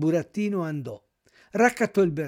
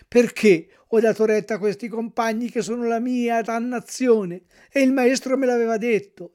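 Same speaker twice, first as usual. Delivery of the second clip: loud, higher wailing self-reproach; despairing lament; 5 semitones higher, 5 dB louder than usual. A narrator's reading. Puppet lamenting his disobedience over his friend, despairing wail. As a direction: cry out in despair at your own stubbornness. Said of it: "piangendo dirottamente e disperandosi".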